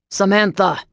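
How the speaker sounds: loud falling holler. A narrator's reading. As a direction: call her name, closer. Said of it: "David's voice was closer now".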